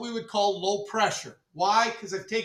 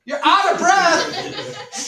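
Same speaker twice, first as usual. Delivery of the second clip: slow, high and loud through laughter; laughing exclamation; 9 semitones higher, 9 dB louder, much slower than usual. Real, not acted. Teacher laughs at the student who is out of breath, slow and laughing. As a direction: laugh it out in disbelief.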